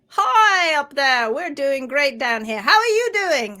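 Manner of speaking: lightly voiced chirpy cell; cheery heel papillae. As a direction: wave up happily from below. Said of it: "the heels are going".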